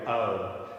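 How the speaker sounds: "o" gliding into oo, two vowels; diphthong O. Shown as a demonstration. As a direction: slide the "o" closed as in English. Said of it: "That's a diphthong".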